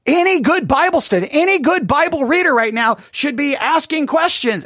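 high-pitched insistent exhortation; urgent preaching. Retold or imitated. Preacher challenging Bible readers, urgently insistent. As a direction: press the listeners hard, acted.

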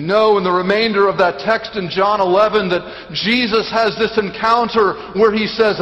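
emphatic preaching. Real, not acted. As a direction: proclaim it with weighty emphasis. Preacher leads into the quote.

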